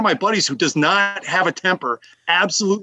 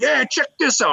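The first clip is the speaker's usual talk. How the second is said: higher-pitched mock holler from shore; imitated yelling; 9 semitones higher than usual. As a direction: mimic a belligerent guy calling out. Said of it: "He's yelling stuff at us like".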